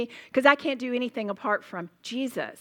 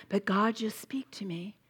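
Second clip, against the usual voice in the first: softened, half-whispered pretend prayer; hushed, lightly put-on plea; mock plea to God; 3 semitones lower, 5 dB quieter than usual. Speaker imitating a woman who skips the word, hushed mock plea.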